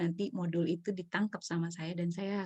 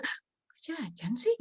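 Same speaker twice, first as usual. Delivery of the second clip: drawn-out, higher-pitched objection; mock disapproval; 4 semitones higher, much slower than usual. Parent to child wanting snacks, mock disapproval. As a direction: drag it out like a put-out parent. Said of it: "kemudian kita udah".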